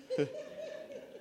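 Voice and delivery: high falsetto burst of laughter. Real, not acted. Preacher to congregation, high falsetto laugh. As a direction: let out a high squeal of laughter. Laugh after Pilate joke.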